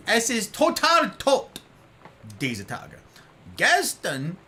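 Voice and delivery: German phrases. Real, not acted. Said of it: "nice accent".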